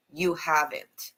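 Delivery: You haven't, slow, with a firm falling end and no question rise; said as a statement. Shown as a demonstration. Quoting the dad's line to the co-host, a slow firm statement. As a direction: say it slowly and firmly as a fact. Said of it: "He said it as a statement".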